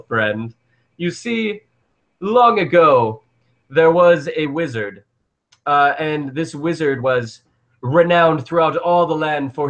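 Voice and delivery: lightly voiced wise guardian weaving a tale; a hint of a solemn angel telling old lore; angel guardian NPC.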